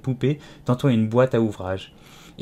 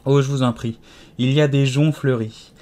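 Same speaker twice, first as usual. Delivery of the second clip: sudden joy; 4 dB louder than usual. Acted. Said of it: "dans un brusque transport de joie".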